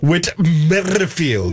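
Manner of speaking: slow Whit Merrifield with a rolled R; purring latin lover. Shown as a demonstration. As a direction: purr Merrifield slowly, rolling the R. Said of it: "who can roll his R's?".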